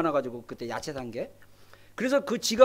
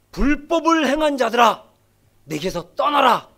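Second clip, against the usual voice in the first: stern Jesus; 5 dB louder than usual. Acted. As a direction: banish them firmly, voice of judgment. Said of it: "근데 예수님이 뭐라 그럽니까?".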